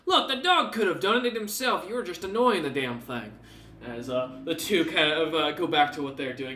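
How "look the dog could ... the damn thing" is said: higher, teasing guard voice; mocking guard. Guard teasing the one nearly slashed, mocking and higher. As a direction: rib your fellow guard. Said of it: "pointing out and saying".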